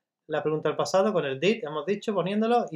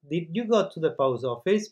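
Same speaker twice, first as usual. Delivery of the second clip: slow model question. Shown as a demonstration. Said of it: "¿cómo se respondería?".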